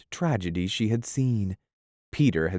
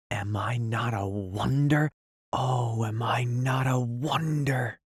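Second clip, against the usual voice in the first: whispered boast; 4 semitones higher than usual. Acted. Peter boasting to Wendy in a whisper. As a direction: whisper it smugly. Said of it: "he whispered to her".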